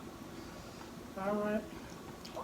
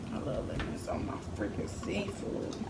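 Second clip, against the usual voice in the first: savoring; 6 semitones lower, 12 dB quieter than usual. Real, not acted. Savoring food while eating.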